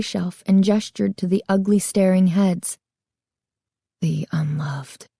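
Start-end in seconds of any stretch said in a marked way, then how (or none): 4.0-5.1 slow, soft and sorrowful; sad whisper. A narrator's reading. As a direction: let it fall sadly, almost a whisper. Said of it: "he said sadly, his voice lowered to a whisper".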